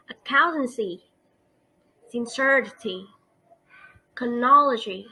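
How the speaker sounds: "accountancy", "sincerity", "chronology", stressed on COUNT, CER, NOL; antepenultimate stress. Shown as a demonstration. Teacher gives rule examples, "accountancy", "sincerity", "chronology" stressed third from last. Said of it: "stress on third from".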